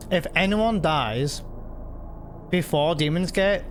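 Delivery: talking with a mouthful; words round a bite of food; mouth full. Real, not acted. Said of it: "sorry for my mouthful".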